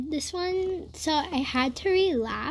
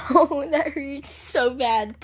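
slow pained moan; 5 dB louder, slower than usual. Real, not acted. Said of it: "I'm crying right now".

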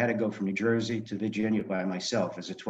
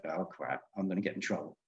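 softer, dreading inner thought; fearful inner voice; 3 semitones lower, 9 dB quieter than usual. Retold or imitated. Called to the headmaster's office, softer dread. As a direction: think it low and dreading.

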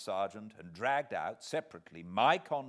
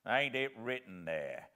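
fierce; 4 semitones higher, 7 dB louder than usual. Acted. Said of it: "with fierce energy".

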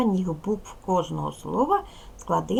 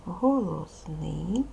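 slow for dictation; much slower than usual. Shown as a demonstration. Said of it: "А".

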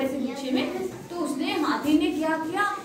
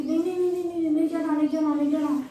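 worried pleading; 2 semitones higher, much faster than usual. Acted. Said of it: "गिलहरी कहती".

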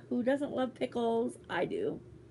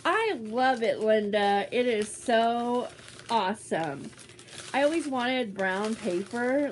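sarcastic delight; 4 dB louder than usual. Acted. Sarcastic thanks for paper.

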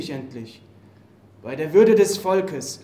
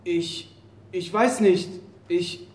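frightened stammer. Acted. Captured soldier facing execution.

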